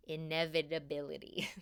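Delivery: inevitability drawn out slowly, every syllable stretched; to a listener, stressing the key word by saying inevitability really slowly. Shown as a demonstration. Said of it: "I just wanna say that really slowly".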